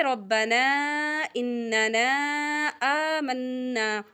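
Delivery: रब्बना, इन्नना, आमन्ना recited joined, the long vowel drawn out before the hamza; joined with madd. Shown as a demonstration. Teacher showing students the joined reading, drawn-out madd. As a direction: stretch the madd on आमन्ना slowly. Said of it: "जब आप इकट्ठा पढ़ेंगे".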